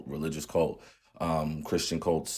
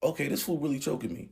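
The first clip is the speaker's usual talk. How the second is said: disbelief; 8 semitones higher than usual. Retold or imitated. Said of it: "And I'm like".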